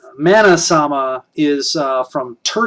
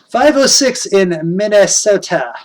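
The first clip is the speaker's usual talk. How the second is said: attempted upper Midwest Minnesota accent; 3 semitones higher than usual. Shown as a demonstration. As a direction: have a go at a Fargo-style Minnesota accent. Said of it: "I used to be able to do that, that, uh, that accent".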